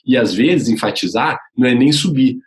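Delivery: ordinary delivery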